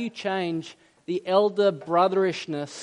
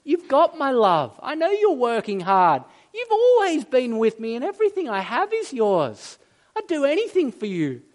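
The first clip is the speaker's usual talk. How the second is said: higher, earnest fatherly reassurance; heartfelt, raised-pitch assurance; pleading father; 6 semitones higher, 3 dB louder than usual. Acted. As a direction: plead lovingly with a sulking son, pitch raised. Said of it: "the father comes alongside him".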